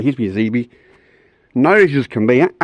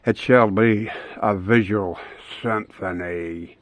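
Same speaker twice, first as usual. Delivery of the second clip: mock grand; 4 semitones lower, 4 dB quieter, slower than usual. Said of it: "mock grand announcement to viewers".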